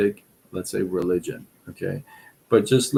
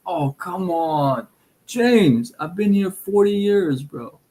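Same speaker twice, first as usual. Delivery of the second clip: mock protest; 7 semitones higher than usual. Joking protest about his accent.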